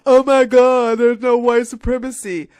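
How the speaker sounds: loud, shrill-sounding mock denial; mock outrage. Mocking an inbred commenter's denial, loud and high. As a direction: scoff it as a fake gasp.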